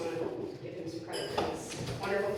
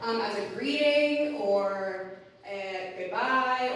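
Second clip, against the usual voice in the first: kindergarten teacher voice; 2 semitones higher, slower than usual. Shown as a demonstration. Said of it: "that's my, um, kindergarten voice".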